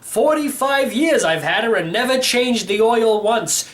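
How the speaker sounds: a hint of a cheerful old codger; a lightly voiced old uncle bragging about his car; old great-uncle voice.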